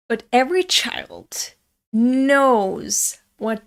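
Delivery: slow, secretive whisper. Real, not acted. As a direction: let them in on a secret. Conspiratorial aside on child tactics.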